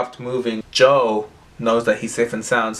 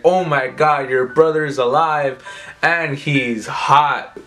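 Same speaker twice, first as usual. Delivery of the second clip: higher, swooning mock gush; gushing excitement; 3 semitones higher, slower than usual. Vesper gushing to the team about Joe being hot, excited. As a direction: gush over him like a starstruck fan.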